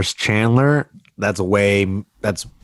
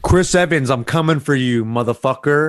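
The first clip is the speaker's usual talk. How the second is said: trash talk callout; 3 semitones higher than usual. Pretend. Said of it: "Excite me with your call out".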